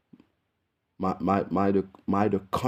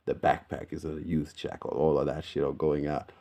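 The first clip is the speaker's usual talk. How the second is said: a lightly put-on Aussie accent, chatty; Aussie accent, easy and casual; fake Australian accent. To viewers about dating in Australia, put-on Aussie accent. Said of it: "This accent is fake".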